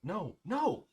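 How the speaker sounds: loud, high-pitched, amused veto; emphatic refusal. Pretend. Player vetoing a friend's head-bowling plan, emphatic refusal. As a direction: shoot it down loudly, half laughing.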